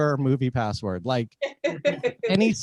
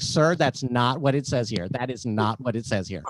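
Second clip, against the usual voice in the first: mildly snippy customer service agent; a touch of condescension, stressing NOT; agent with attitude; 4 semitones lower than usual. Retold or imitated. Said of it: "he gave me such an attitude".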